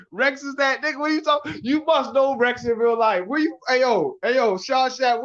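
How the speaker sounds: high-pitched, animated challenge; worked-up challenge. Real, not acted. Streamer challenging a chat viewer on where they're from, worked-up.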